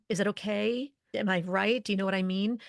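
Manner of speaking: tentative, seeking approval with lifted endings; insecure upspeak. Shown as a demonstration. Leadership coach mimicking someone who undermines their authority, insecure upspeak. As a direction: voice rising at the phrase ends. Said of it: "makes you sound insecure, like you're asking".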